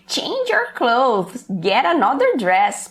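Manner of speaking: slow, light fatherly order; a hint of a stern father. Father telling daughter to change, mild stern order. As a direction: play the dad, not too hard. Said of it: "o pai falando com a filha".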